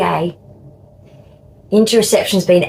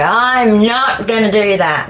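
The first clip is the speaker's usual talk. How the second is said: slow, drawn-out mock refusal; defiant refusal; 3 semitones higher than usual. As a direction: stubbornly dig your heels in, playfully. Acting out refusal to take medicine.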